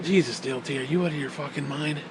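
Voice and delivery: deadpan at your crazy friend; incredulous. Retold or imitated. Answering his friend, deadpan disbelief. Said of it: "And I'm like".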